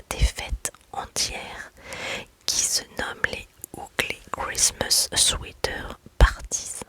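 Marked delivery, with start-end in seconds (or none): 3.8-6.8 whispered English phrase in a clumsy French-tinged English accent; self-mocking try at an English accent, still whispered. Shown as a demonstration. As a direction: attempt Ugly Christmas Sweater Parties with an English accent, a bit awkwardly. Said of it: "mon accent anglais, on repassera".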